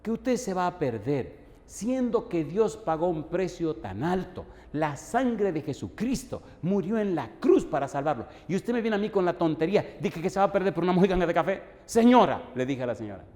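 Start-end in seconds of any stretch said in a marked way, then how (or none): 0.0-11.6 indignant scolding. Retold or imitated. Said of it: "se me entró un enojo". 11.8-12.5 sharp call. Retold or imitated. Scolding the wife next.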